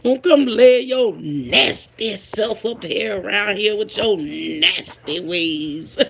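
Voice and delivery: lightly voiced scolding movie woman, drawn out; movie line quote. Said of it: "That was on the Women of Brewster Place".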